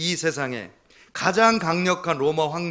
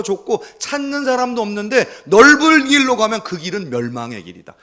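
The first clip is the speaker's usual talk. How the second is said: loud, higher preaching voice; fiery preaching; 7 semitones higher, 8 dB louder than usual. Acted. Pastor urging the congregation toward the narrow road, loud and fiery. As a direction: preach it out to the back pews.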